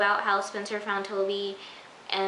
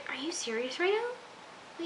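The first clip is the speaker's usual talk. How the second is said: slow, quiet, higher, dragged-out disbelief; slow disbelieving; 6 semitones higher, 8 dB quieter, slower than usual. Retold or imitated. Viewer reacting to the pad in Spencer's bag, slow disbelief. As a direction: stretch every word in weary disbelief.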